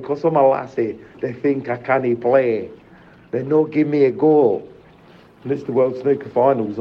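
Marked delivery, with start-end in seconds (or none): 0.0-4.6 reflective repeat. Real, not acted. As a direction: repeat her words gently, savouring them. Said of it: "You know what I mean?".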